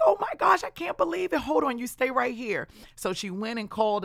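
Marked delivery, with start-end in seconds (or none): 0.1-2.7 much higher, excited disbelief; shocked gasp. Retold or imitated. Coworker hearing she quits, high shocked voice. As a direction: squeal it out like stunned news.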